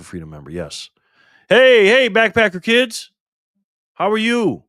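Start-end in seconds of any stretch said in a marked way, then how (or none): 1.5-4.6 loud excited greeting. Real, not acted. Greeting viewers arriving.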